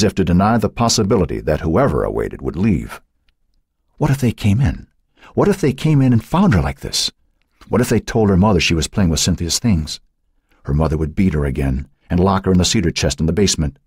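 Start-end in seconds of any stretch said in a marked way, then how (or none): 4.0-10.0 high, anxious narration; panicked worry. A narrator's reading. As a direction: voice her mounting dread. Panicked thoughts at the doorbell.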